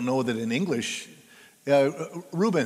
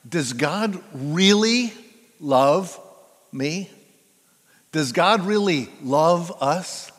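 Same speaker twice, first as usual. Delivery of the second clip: doubting question; 4 dB louder, slower than usual. Retold or imitated. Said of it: "people ... giant question mark".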